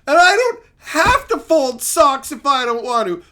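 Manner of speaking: puffed-up henpecked man; mock defiant husband. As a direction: stand up to the wife, half-seriously. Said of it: "And go".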